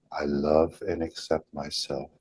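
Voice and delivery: gently understated affirmation; relaxed tone. Shown as a demonstration. Modeling the affirmation for followers to say, relaxed tone. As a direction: say it easily, with a loose chest. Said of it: "the tone of the voice, the relaxation in the chest".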